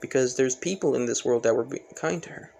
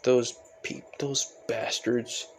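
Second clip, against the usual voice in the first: mildly disgusted, grumbled rather than shouted; annoyed; 2 semitones lower than usual. Acted. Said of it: "annoyed by this".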